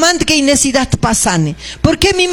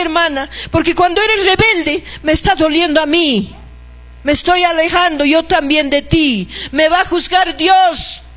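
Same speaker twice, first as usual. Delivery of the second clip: sincere apology; 4 semitones higher than usual. Acted. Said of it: "a decirle".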